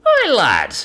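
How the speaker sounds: a loud, high Scots hail; thick Scots accent. Acted. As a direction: call out in a broad Scots voice. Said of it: "It had a Scots accent so thick".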